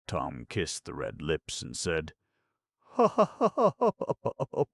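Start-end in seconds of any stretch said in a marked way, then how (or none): 2.8-4.6 high, loud hammed-up ha-ha-ha; mock triumphant laugh. A narrator's reading. Tom laughing after kissing Becky, hammed-up high laugh. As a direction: crow with a boy's glee.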